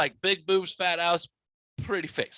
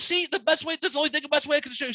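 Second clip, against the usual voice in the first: voicing the friend; 9 semitones higher, much faster than usual. Friend voiced in retold story.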